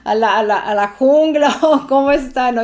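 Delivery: giggling while picturing living like Tarzan; laughing. Real, not acted. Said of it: "Yo, yo riéndome".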